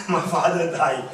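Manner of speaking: wrongly cheerful, loud giggling delivery; laughing, not sad. Shown as a demonstration. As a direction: laugh through the sad news. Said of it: "That's not sad".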